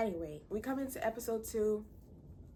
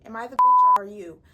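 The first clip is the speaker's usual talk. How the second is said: mock yell; 17 dB louder than usual. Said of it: "And it's like".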